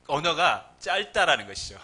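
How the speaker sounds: ordinary delivery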